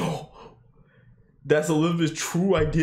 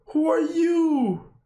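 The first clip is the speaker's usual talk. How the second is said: stunned drawn-out question; 14 semitones higher, much slower than usual. Real, not acted. Reacting to a reveal on screen.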